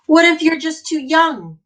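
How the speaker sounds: high, loud anxious question; worried question. Acted. Teacher voicing a child's doubt, high and anxious.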